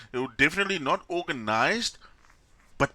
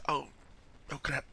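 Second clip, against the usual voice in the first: mock deflation; 11 dB quieter than usual. Acting out the celebrators let down.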